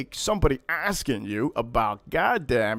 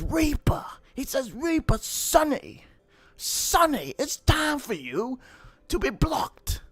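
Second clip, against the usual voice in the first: hammed-up threat of a squirming old guy; Mister Smelly's voice; 10 semitones higher than usual. Streamer imitates a viewer threatening to block him, high and mocking.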